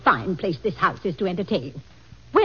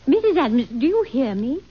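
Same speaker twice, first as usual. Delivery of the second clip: calling out; 6 semitones higher, 4 dB louder than usual. Acted. Maid calls to distracted Mrs Adams.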